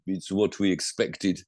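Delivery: slow mock Italian accent, lightly done; a hint of an Italian team boss shrugging it off, in an Italian accent; a slow, shrugging Italian accent on "It's what we expected". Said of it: "in my best Italian accent".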